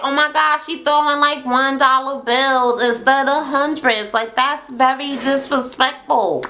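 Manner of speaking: lightly hammed-up indignant woman; mock offended. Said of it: "she's like".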